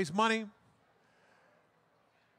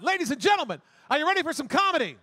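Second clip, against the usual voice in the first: hype-up call; 4 semitones higher, faster than usual. Real, not acted. Emcee hyping the crowd.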